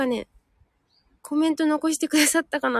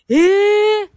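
loud, high "eh!" of real amazement; surprised gasp; 5 semitones higher, 9 dB louder than usual. Real, not acted. Told a flower grows six meters, amazed. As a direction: let the surprise jump out.

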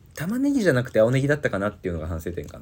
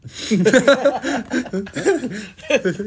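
sudden high giggling fit; burst of high laughter; 6 dB louder than usual. Real, not acted. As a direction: cracks up out loud. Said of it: "なんか笑っちゃう".

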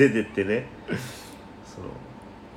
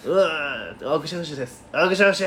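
re-enacted stage intro; 4 semitones higher, slower than usual. Re-enacting their turn on stage.

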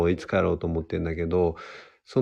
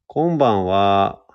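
slow, louder Kansai greeting; Kansai accent; 5 dB louder, slower than usual. Shown as a demonstration. Host trying a Kansai self-introduction, slow Kansai accent. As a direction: attempt a drawn-out Kansai good evening. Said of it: "関西弁で自己紹-、自己紹介でしょ？".

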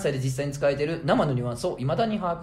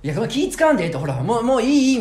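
hammed-up pushy no-no-no, higher and louder; imitating an over-polite back-and-forth, raised and louder; mock insistent refusal; 8 semitones higher, 6 dB louder, faster than usual. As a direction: wave off the change like at a fancy restaurant. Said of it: "みたいな感じでさ".

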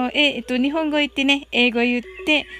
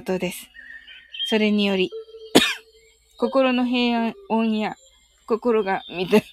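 guided meditation; 2 semitones lower than usual. Acted. Leads a loving-kindness meditation.

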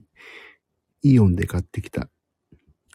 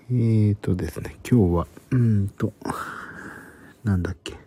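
hushed whisper throughout. Real, not acted. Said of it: "今日はひそひそ声で話しております。".

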